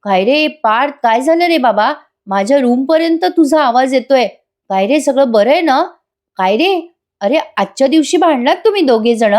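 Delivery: lilting mock concern for a friend; fake sympathy. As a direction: put on exaggerated, nosy sympathy. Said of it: "पार्थला खोटी खोटी sympathy दाखवायला लागते".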